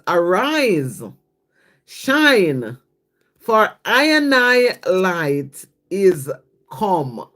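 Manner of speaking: slow, solemn reading with Rasta wording; stretched-out devotional recitation; scripture reading. Acted. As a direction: recite it slowly, swapping in I and I. Rereads verse in Rasta wording.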